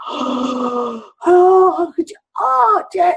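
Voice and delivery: high, rising shocked cry; shocked hurt gasp. Retold or imitated. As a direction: recoil as if slapped by the words. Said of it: "it was like".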